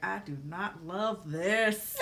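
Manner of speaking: teeth clenched, slow and tight; through gritted teeth. Shown as a demonstration. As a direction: say it without opening your teeth. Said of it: "when you don't open your teeth".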